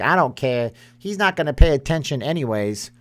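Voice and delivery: mock careless parent, tossed off; uncaring parent. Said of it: "I don't know why I talked like that just now".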